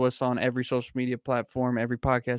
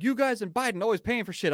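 imitating the clerk; 10 semitones higher than usual. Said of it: "He was like".

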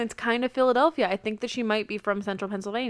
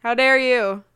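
hammed-up outrage, louder; mock outrage; 5 dB louder than usual. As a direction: play the offended Ric Flair. Mock outrage as Ric Flair.

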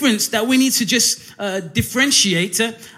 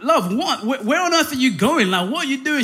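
higher-pitched, baffled questioning; mock bewilderment; 5 semitones higher than usual. Husband asking his wife where she is going, playfully bewildered. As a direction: play up the puzzled husband.

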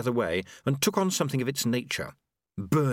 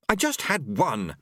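defensive snap, mildly done; snapping; 4 semitones higher, slower than usual. Acted. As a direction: snap back a little defensively. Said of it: "she snapped".

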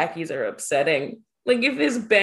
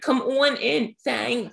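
mock Southern twang; 4 semitones higher, slower than usual. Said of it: "Southern Philadelphia".

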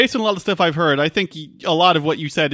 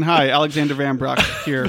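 laughing; 3 semitones lower than usual. Real, not acted. Introduces with new name, laughing.

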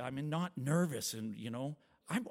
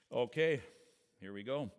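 ordinary talk

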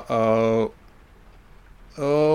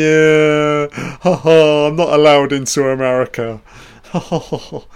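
voicing Roman Polanski; 5 dB louder than usual. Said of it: "It's Roman Polanski celebrating".

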